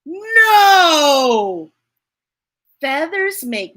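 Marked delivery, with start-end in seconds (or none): 0.0-1.7 a loud, sobbing no; teary refusal; crying no. Acted. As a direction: wail it like a tearful child. Character cries refusal.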